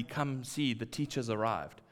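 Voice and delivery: hushed, soft summons; quiet call. Retold or imitated. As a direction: say it softly so no one hears. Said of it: "so quietly".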